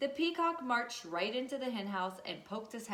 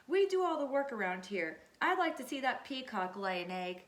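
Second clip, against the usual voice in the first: indignant hen; 3 semitones higher, 4 dB louder than usual. Acted. Angry hens complain about peacock.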